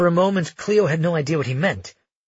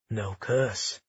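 whispered; 4 semitones lower, 6 dB quieter than usual. Acted. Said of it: "he whispered".

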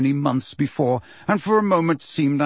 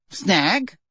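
higher, joyful rising query; vibrating with joy; 4 semitones higher than usual. A narrator's reading. Fudge echoing Dumbledore, still joyful. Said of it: "his voice still vibrating with joy".

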